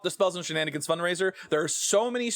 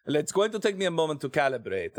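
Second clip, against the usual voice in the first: put-on French accent slipping into Italian; a wobbly French-turned-Italian accent; botched French accent. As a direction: try French but land on Italian. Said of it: "that's not French, that's Italian".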